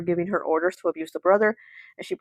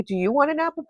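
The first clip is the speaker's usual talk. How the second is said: stepmother's offer; 8 semitones higher than usual. Retold or imitated. Stepmother offers the boy an apple.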